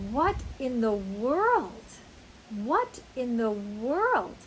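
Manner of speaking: slow, drawn-out amazement; surprised. Shown as a demonstration. Teacher demonstrating what you say when surprised, drawn out. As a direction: swoop up on WORLD in disbelief. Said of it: "you're surprised".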